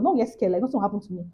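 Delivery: quiet steadying words; calm yourself quietly; soft self-reassurance. Retold or imitated. Reassuring herself in the car, softly. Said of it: "I now told myself".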